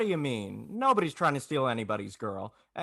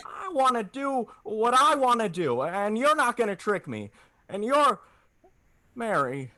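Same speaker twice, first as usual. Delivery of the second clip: lashing out until the voice breaks; a desperate shout close to crying; breaking outburst; 5 semitones higher than usual. Acted. George's outburst at Mary on phone.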